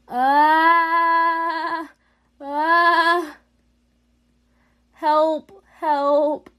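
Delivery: being chased, screaming; scared screaming. Real, not acted. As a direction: yelp for help while being chased. Chased by a clone in game.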